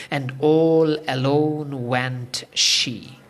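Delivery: loud, drawn-out verse with swelling, lengthened words; poem recitation. Shown as a demonstration. Speaker recites Sands of Dee for a beloved one's recovery, declaimed poem. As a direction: recite it slowly and emphatically, stretching the key words. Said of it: "I'm reciting this poem first".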